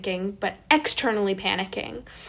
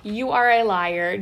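slow and louder, a stretched-out yell; mock screaming; 6 dB louder, slower than usual. Yelling at the cousin who lied about the drop, slow and loud. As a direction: drag the words out mid-drop, half laughing and half yelling. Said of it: "and I'm screaming".

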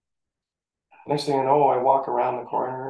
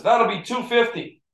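lightly voiced cashier, higher and slow; 10 semitones higher than usual. To a customer in line, a hint of a cashier's voice. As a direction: mimic the ticket seller calmly quoting the price. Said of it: "And he says".

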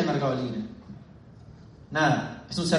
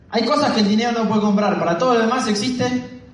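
higher-pitched quoted slogan; imitated crowd cry; 5 semitones higher than usual. Speaker reciting brand slogans to the room, mock shouting. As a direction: call out a slogan in mock zeal. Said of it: "en una grita".

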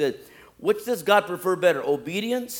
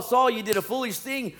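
raised, higher-pitched scolding; loud rebuke; 7 semitones higher, 6 dB louder than usual. Acted. Samuel confronts Saul over not waiting for God, loud rebuke. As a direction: rebuke him at full preaching volume.

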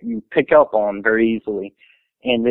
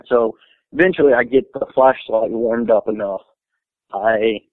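nervous, trembling voice; shaky voice. Real, not acted. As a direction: speak with a nervous shake. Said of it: "sorry, my voice is shaky".

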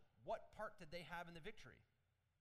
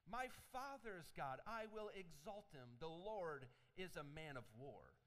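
scripture reading; slower than usual. Acted. Reads the song aloud.

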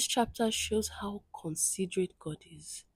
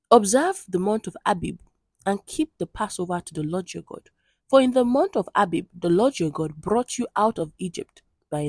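steady, louder formal Bible reading; scripture reading; 4 dB louder than usual. Acted. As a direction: read the passage aloud to the congregation, measured and solemn. Reads next chapter aloud.

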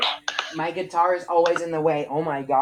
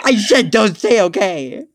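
louder, high, slow repeat; raised voice; 5 semitones higher, 10 dB louder, slower than usual. Real, not acted. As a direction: insist with a raised voice.

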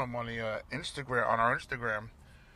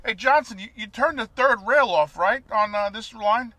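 high, loud dopey worker voice; mock subway worker; 7 semitones higher, 9 dB louder than usual. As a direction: play a clueless transit guy. Voicing subway worker in story.

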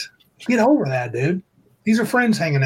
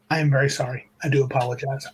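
lower, quieter, measured show of remorse; mock-sincere apology; 4 semitones lower, 3 dB quieter than usual. Host redoing an apology after being called insincere, mock-solemn. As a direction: redo the apology with put-on earnestness, dropping the pitch. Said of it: "that didn't sound very sincere".

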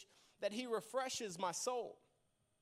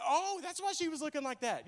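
laughing realization; 3 semitones higher, 3 dB louder than usual. Retold or imitated. Realizing he forgot birthday.

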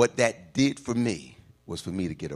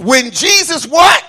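high, loud, drawn-out preacher's question; shouted prompt; 16 dB louder, slower than usual. Real, not acted. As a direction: throw the question out to the congregation loudly.

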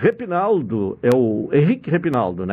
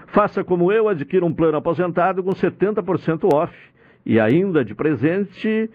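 upbeat live-read radio ad; infomercial. Acted. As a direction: pitch the sponsor with energy.

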